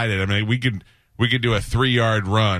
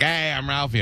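others' Ralphie; 6 semitones higher, 3 dB quieter than usual. Retold or imitated. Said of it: "people used to always do Ralphie".

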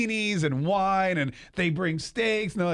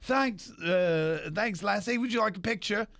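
Impression of a singer; 4 semitones higher, slower than usual. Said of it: "that's a great, impression".

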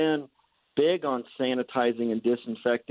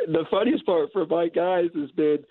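muffled through a respirator mask; talking behind a respirator; 6 semitones higher than usual. Real, not acted. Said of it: "you can't see me smiling through my respirator".

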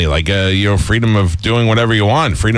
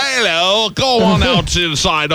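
much higher, hammed-up English accent; mock English accent; 9 semitones higher, slower than usual. Host mocks guest's English accent, much higher. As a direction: ham up a snooty English accent. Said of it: "But I'm never like".

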